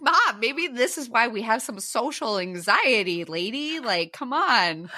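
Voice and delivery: slow, mock-scolding teasing; teasing retort. Daughter teases mom about social anxiety, slow mock scolding.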